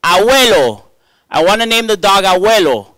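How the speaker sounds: put-on high, loud little girl voice; little daughter's voice. Daughter telling dad the dog's name, high child voice. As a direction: play a three-year-old asking for a dog name. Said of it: "she goes".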